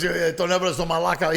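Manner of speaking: fast, loud grumbling; huffy jealous complaint; mad bandmate. Retold or imitated. Jealous singer griping again, fast and loud. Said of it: "He got mad".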